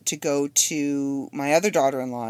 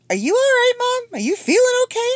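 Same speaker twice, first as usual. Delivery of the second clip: much higher, louder worried daughter voice; 6 dB louder than usual. Retold or imitated. Daughter calling her mom back in alarm, high worried voice. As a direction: mimic her alarmed concern, pitched up. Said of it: "She's like".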